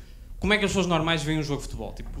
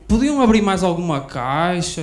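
passive-aggressive complaint; 4 dB louder, much slower than usual. Retold or imitated. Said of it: "vê a fila e diz".

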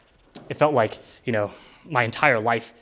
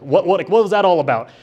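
higher and louder, stunned what-what; astonished; 6 semitones higher, 6 dB louder than usual. Retold or imitated. Asking mom what she meant, astonished and louder. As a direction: blurt it out in disbelief.

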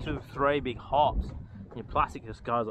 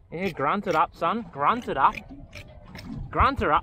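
urging on; 4 semitones higher, 4 dB louder than usual. Real, not acted. Urging the fish while fighting.

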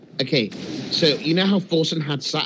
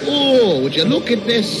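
made-up Canadian accent, hammed-up; mock Canadian accent; 4 semitones higher, 4 dB louder than usual. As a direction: put on a joking Canadian accent. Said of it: "that's like a made-up accent".

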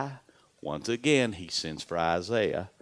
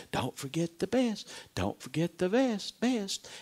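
urgent mountain voice; 9 semitones higher than usual. A narrator's reading. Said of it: "the voice continued to say".

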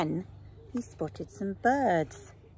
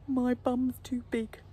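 slow, raised-pitch bear bellow; a mild mock bellow, drawn out; 6 semitones higher, slower than usual. A narrator's reading. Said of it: "bellowed the Bear".

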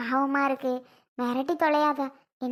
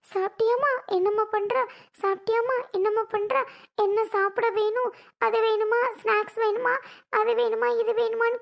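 lightly voiced, higher, doting husband; imitating husband; 5 semitones higher than usual. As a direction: mimic his old sweet asking. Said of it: "கேட்கிறவரு". (கணவனின் அன்பான கேள்வியைக் கிண்டலாகப் போலி செய்தல்)

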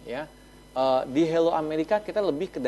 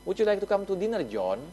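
raised pitch on the question, dropping on John; asking a man to dinner, slightly raised; invitation to a man; 6 semitones higher than usual. Shown as a demonstration. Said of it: "saya ngomongnya begini".

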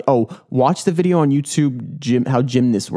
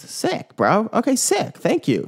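high excited yelp; 9 semitones higher, slower than usual. Real, not acted. Excited reaction to the news item.

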